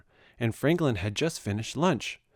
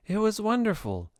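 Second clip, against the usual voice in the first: high, glowing praise; delighted; 10 semitones higher than usual. A narrator's reading. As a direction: beam with happiness. Bear thanks happily.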